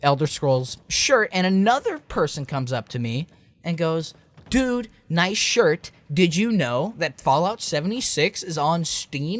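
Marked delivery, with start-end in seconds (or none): 4.5-9.4 slow, eager mock excitement; lightly voiced eager shopper sharing big news; a hint of a thrilled stranger; excited shopper. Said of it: "She was so excited to tell somebody".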